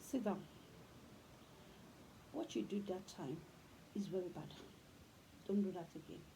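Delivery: put-on sit the child down and correct them gently; calm correction. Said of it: "But when you tell them".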